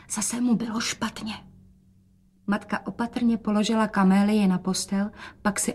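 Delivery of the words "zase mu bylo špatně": unvoiced secret whisper. A narrator's reading. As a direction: whisper it so father won't hear. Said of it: "dodala šeptem". (šeptem)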